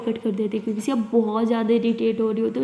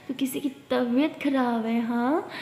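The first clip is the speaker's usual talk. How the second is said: soft teasing; 5 dB quieter, slower than usual. Acted. Friend teasing softly.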